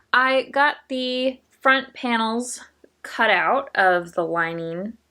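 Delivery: slow, careful speech with a numb mouth. Real, not acted. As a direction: talk through a half-numb face after the dentist. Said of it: "and half my face is numb".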